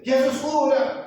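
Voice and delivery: high, drawn-out call, not full volume; mock crying out. Preacher replays the shouting stones, high drawn-out call. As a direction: imitate a stone calling out slowly. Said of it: "umas pedras gritando".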